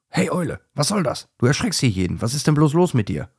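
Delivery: high, confronting call; indignant challenge. A narrator's reading. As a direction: demand an answer from the owl.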